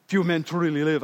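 attempted Braveheart-style Scottish accent; bad Scottish accent. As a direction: try a Scottish accent and not quite land it. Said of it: "I can't do the Scottish accent".

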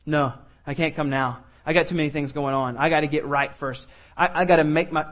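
low, soft, dejected excuse; reluctant sinner. Retold or imitated. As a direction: murmur it like someone who feels unworthy. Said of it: "that think they have to clean themselves up first".

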